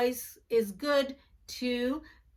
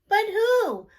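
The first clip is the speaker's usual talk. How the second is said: mystery question; 9 semitones higher, 7 dB louder than usual. A narrator's reading. Mystery refrain in kids story.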